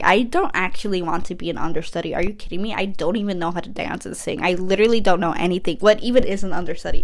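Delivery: fast, mildly panicked rattle; retold freak-out. Rocket Man doesn't want to be an understudy, mock freak-out. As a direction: rush through it like a mock freak-out. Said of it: "freaking out".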